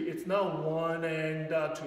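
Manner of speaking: slow, leaning on one and two; counting the beat. Shown as a demonstration. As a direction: mark one and two as the strong counts, slowly. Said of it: "It's emphasis on, uh, one and two".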